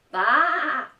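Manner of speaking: high, loud baa; sheep bleat. Acted. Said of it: "said the sheep".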